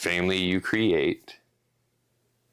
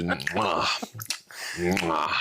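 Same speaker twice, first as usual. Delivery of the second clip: mock smacking kiss. Shown as a demonstration. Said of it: "I want this to be A S M R".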